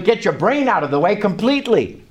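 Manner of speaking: "completely" given firm emphasis; stress on COMPLETELY. Real, not acted. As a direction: lean on the word "completely". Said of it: "I stress the word completely".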